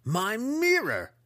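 high, slow, pained cry over mirror; anguished groan. A narrator's reading. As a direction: wail it like a wounded villain.

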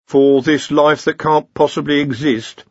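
high-voiced academic correcting his seniors; Ponder, earnest junior wizard. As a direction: explain patiently in a high voice. Ponder coaxing Rincewind.

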